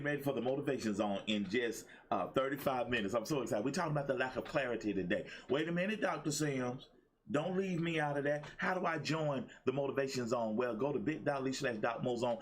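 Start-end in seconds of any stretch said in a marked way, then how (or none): 5.5-10.6 a touch higher, pleading viewer; viewer afraid to miss out. Retold or imitated. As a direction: lightly play a fan who doesn't want to be left out. Voices a viewer wanting in.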